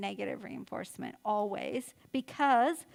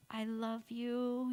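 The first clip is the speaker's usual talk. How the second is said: slow, gently said; tender reassurance; 4 dB quieter, much slower than usual. Acted. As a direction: soothe an upset child. Parent soothing screaming child in car.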